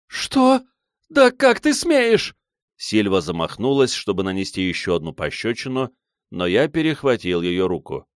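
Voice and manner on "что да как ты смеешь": very high, loud, slow outrage; outraged shriek. A narrator's reading. Silva outraged at his accusation, shrieking high. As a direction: shriek the insult back.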